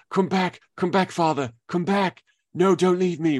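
lightly voiced crying cub; imitating Simba. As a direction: cub begging his father, mock pleading. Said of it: "when Simba goes".

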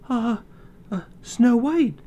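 put-on high, slow, timid girl; hesitant high girlish reply; shy girl voice. Frightened girl answers dwarves.

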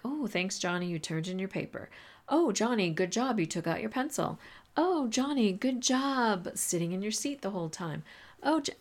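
high swooping "oh" of mock praise; over-the-top praise. Teacher thanking Johnny for every little thing, exaggerated praise. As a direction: gush over tiny things, pitch jumping up on each "oh". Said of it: "I know that's a little crazy".

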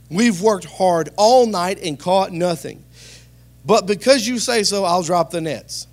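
weary. Acted. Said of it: "fatigue in his voice".

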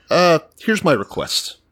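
lightly voiced regal queen, drawn out; a hint of a coy queen. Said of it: "And she's like".

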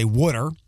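Philly "wooder" for water, said as "would've". Shown as a demonstration. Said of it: "so I wouldn't say".

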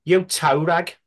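lightly put-on Yam Yam accent. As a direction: say it in a Black Country Yam Yam accent. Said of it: "You have to use a Yam Yam accent".

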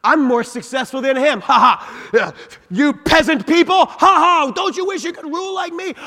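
high, loud gloating laugh; haughty gloating. Pretend. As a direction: lord it over the peasants. Voicing arrogant person.

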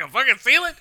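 high, loud disbelieving yell; incredulous shout. Retold or imitated. Man yells at his fiancee for forgetting ceiling, loud disbelief. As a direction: bark it out like you can't believe her. Fiance baffled by her word search.

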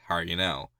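light Newfie accent, run together. Shown as a demonstration. Quoting the stock reply to friends, light Newfie accent. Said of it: "like, that Newfie accent".

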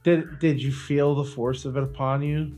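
ordinary delivery

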